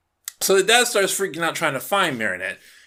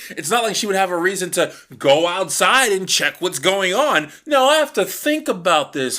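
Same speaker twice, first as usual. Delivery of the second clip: higher, louder hammed-up dimwitted hero musing; mock clueless Cat Noir; 3 semitones higher, 3 dB louder than usual. Reviewer mocking Cat Noir failing to connect the dots, hammed-up. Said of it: "and I'm like".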